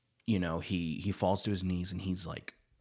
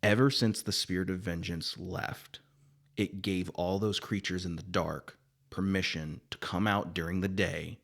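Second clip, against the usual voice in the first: solemn spirit messenger. Acted. Voices Zeb's speech to Johnny.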